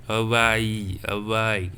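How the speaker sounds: "Hawaii" said clearly as a-wa-i, each syllable given; teaching pronunciation. Shown as a demonstration. Teacher showing students the trema I sound, clear. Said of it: "the proper I sound".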